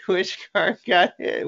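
high, eager repeat; curious crowd voice; excited. Retold or imitated. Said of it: "We're like".

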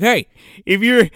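high boastful yell imitating the boyfriend; mock bragging call-out. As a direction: call out to the hidden watcher, stretching the last word. Voices boyfriend calling out to watcher.

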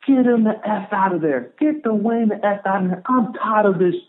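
restrained take on a coach's sideline scream; retold scream. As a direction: imitate a fed-up coach yelling, held back. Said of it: "I hear Coach Garrett scream".

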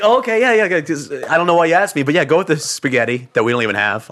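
hide the annoyance behind a bright put-on yes; fake agreeable. Waiter humoring a customer who ignored the suggestions, forced cheer. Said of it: "I have to be like".

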